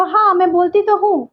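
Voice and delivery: तो stressed in हाँ, मैं बोलती तो हूँ; emphatic reply. Shown as a demonstration. Replying to the doubt, stressing तो. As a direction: assert it, weight on तो. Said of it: "तो आप बोलेंगे".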